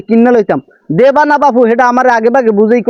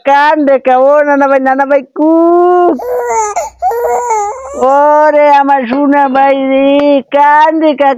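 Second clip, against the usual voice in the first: put-on soothing a baby. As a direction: coo to a crying grandchild. Soothing a crying baby grandson. (কান্না থামাতে সুর করে আদর)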